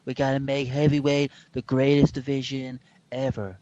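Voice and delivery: lightly done Donald Trump voice; Trump impression. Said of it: "It was a Donald Trump accent".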